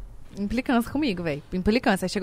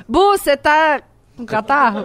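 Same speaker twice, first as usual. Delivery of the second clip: laughing; 3 semitones higher, 6 dB louder than usual. Real, not acted. Laughing while teasing friend.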